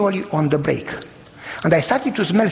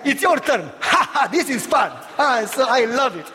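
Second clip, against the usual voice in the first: put-on carefree kids; 6 semitones higher than usual. Kids laughing during brake failure.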